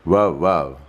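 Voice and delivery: dog bark imitation. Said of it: "What do the dog say?".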